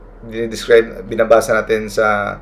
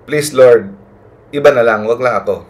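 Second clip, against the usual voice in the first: a mild retold plea, a touch louder; begging Moses; 3 dB louder, faster than usual. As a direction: plead lightly, like Moses begging to be spared. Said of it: "nagmamakaawa pa rin si Moses".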